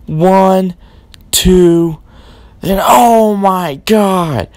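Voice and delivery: announcer losing it at a kickout; excited pin count. Acted.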